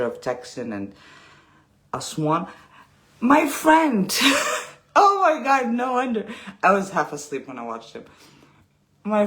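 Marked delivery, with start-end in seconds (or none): 3.2-6.3 laughing disbelief. Real, not acted.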